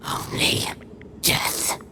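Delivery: Only death breathed as a hushed whisper; a ghostly whispered Only death; whispered echo. Acted. Echo of the vow.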